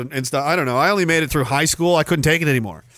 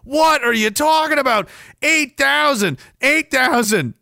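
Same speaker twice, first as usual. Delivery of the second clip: mocking emotional fan; 3 semitones higher than usual. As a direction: ham up the teary superfan. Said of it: "They're like".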